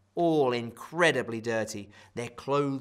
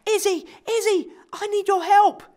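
calling out; 9 dB louder than usual. Acted. Ralph calling out for help.

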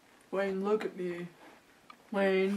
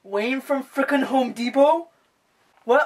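loud, high disbelieving yell; shocked boyfriend yelling; outraged yell; 6 semitones higher, 15 dB louder than usual. Acted. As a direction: scream it in total disbelief. Boyfriend learns of cheating.

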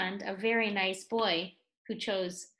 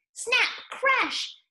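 dramatic crash; 13 semitones higher, 4 dB louder than usual. A narrator's reading. Dramatic sound of falling dragon.

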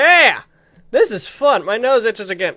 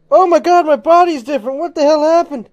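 higher, louder startled exclaim; shocked; 6 semitones higher, 7 dB louder than usual. Real, not acted. Player shocked as her body changes, surprised. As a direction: blurt out your shock.

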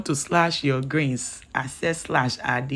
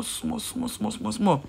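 whisper; 5 semitones higher, 5 dB quieter, slower than usual. Shown as a demonstration. Mimicking fine slashing.

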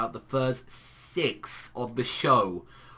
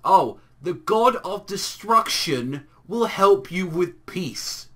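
higher, slow, grand promise; Frost; 3 semitones higher, 5 dB louder, slower than usual. Retold or imitated. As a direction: announce it slowly in a raised character voice. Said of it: "and he's like".

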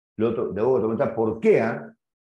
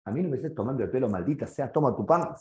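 angry rant. Acted. Customer storms off throwing bread.

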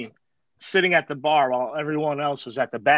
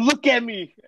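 higher-pitched mock plea for pity; retold guilt-tripping; 5 semitones higher than usual. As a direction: imitate a guilt-tripper pointing at himself. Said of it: "just guilt trip you".

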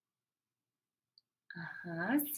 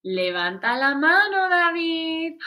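loud, firm order to raise his hand; stern teacher call; 5 semitones higher, 6 dB louder than usual. Acted. Teacher calling David to raise his hand, firm. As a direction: call out firmly across the class.

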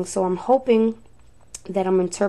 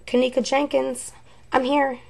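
higher-pitched echo of the voice; imitating the recording; 4 semitones higher than usual. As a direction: mimic the spirit box voice, higher. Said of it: "she says".

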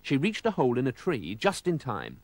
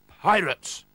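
louder, higher cry of alarm; 6 semitones higher, 5 dB louder than usual. A narrator's reading. Oldcastle spots pirates coming ashore, alarmed cry. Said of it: "cried Mister Oldcastle".

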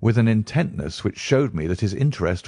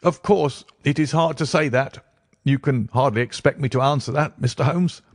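higher, reedy, evasive voice; nervous fashion; 7 semitones higher than usual. A narrator's reading. Patient refusing to answer Holmes, nervously evasive. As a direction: squirm out of it in a high edgy voice. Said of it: "said the resident patient in a nervous fashion".

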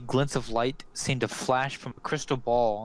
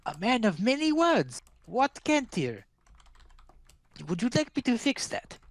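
high, crackling crone offer; old crone; 10 semitones higher than usual. Acted. Crone offering to fix Watt's hearing. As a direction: tempt him like a witch. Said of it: "she looks at Watt and she says".

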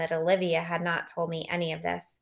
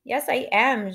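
mildly tearful, higher voice; sobbing; 6 semitones higher, 3 dB louder, slower than usual. A narrator's reading. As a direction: insist through a hint of sobs. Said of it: "she sobs".

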